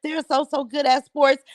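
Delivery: mild mock proud gush; mocking imitation. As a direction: lightly send up a boasting mother. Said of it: "She tried to act like".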